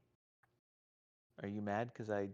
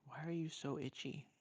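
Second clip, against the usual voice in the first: high pet-talk voice; 6 semitones higher, 4 dB quieter than usual. Real, not acted. Talking to itchy pet.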